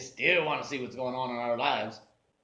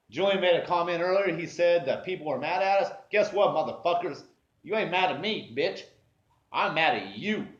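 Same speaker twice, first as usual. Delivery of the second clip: higher, louder furious venting; angry rant; 4 semitones higher, 3 dB louder than usual. Real, not acted. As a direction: let the grudge boil over. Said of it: "I'd go from mad to happy".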